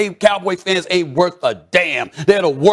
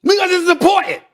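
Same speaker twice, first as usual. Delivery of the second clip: heated rant; 8 semitones higher than usual. Acted. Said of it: "I'm not joking".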